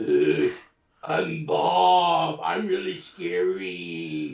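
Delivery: very deep, loud, slow, masculine voice. Showing how the imagined character sounds: really deep masculine voice. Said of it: "really, really deep, masculine".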